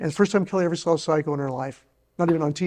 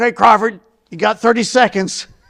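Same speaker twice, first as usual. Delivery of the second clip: gruff, rough, very loud call; 6 semitones higher, 10 dB louder than usual. Retelling a phone call answered by Ted Turner: imitating Ted Turner's gruff voice. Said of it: "real gruff".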